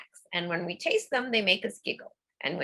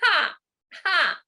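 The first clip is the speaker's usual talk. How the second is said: loud high ha ha; group laughter exercise; forced laughter; 8 semitones higher, 5 dB louder, slower than usual. Shown as a demonstration. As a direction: laugh out on cue. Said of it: "and go".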